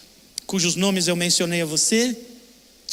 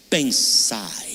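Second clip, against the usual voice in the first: whispered scripture; 8 semitones lower than usual. Acted. Quoting scripture, hushed ending.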